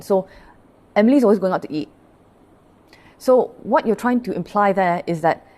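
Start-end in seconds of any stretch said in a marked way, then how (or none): 0.9-1.9 a touch of disapproval on Emily; disapproving tone. Shown as a demonstration. Teacher showing class a disapproving way to say it. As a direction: say it as if she shouldn't. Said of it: "you say it with a negative tone or you say it with an element of dissatisfaction".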